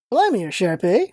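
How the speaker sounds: put-on a rough first pass at a British accent; loose, unsettled British accent; first try at British voice. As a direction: try the British accent, not quite there yet. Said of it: "I need to get this voice".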